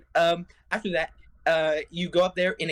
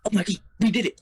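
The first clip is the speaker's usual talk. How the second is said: higher and louder, thrilled at the win; excited victory cry; 5 semitones higher, 5 dB louder than usual. Retold or imitated. Player cheering after knocking the skull out, excited. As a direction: cheer it like you just beat the boss. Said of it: "you're like".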